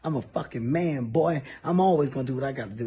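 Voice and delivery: a light Texas twang, rushing the end; Texas drawl. Retold or imitated. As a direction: drunk Houston man, lightly voiced. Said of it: "That's when his Texas really come out".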